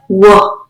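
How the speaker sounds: "w" said as a short "wuh"; just the opening sound "w"; isolated phoneme. Shown as a demonstration. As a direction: sound out "w", not its letter name. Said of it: "we are going to be substituting phonemes".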